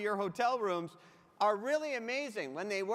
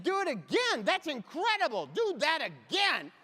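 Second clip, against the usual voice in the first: high, loud, hammed-up wonder, slowing on the last line; mock amazement; 6 semitones higher, 5 dB louder than usual. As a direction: gush like a wide-eyed child watching a magic trick. Mock amazement at clerk's demo.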